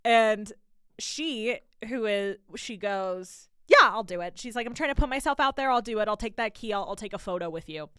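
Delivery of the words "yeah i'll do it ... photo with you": loud, quick volunteering, easing off; mock eagerness, bursting out then settling; imitated eager friend. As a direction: jump in gamely, mimicking an eager friend. Friend eagerly agreeing, retold.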